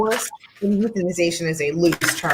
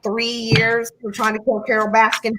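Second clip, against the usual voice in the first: Southern accent; 3 semitones higher than usual. Shown as a demonstration. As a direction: say it like a Southern local. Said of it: "I said that in a Southern accent".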